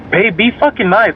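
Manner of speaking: lightly voiced girlfriend scolding; imitated girlfriend. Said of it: "she be like".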